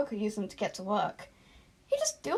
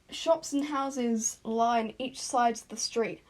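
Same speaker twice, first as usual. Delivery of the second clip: slower, each word placed; slow careful re-read; slower than usual. Shown as a demonstration. Narrator re-reading a fumbled line, slowly. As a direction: read it again slowly and clearly. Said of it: "That sounds a lot better".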